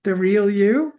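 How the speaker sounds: gently mock disbelief at the idea; questioning the listeners' idea of a real self; incredulous what. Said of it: "And I'm like".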